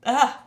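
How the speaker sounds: loud, high "ah" fighting back tears; emotional gasp. Real, not acted. Streamer overcome by viewers' kind words, emotional. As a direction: cry out as feeling wells up. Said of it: "try not to get emotional".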